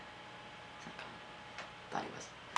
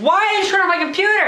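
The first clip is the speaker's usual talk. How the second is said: annoyed; 12 semitones higher, faster than usual. Real, not acted. Accusing co-host.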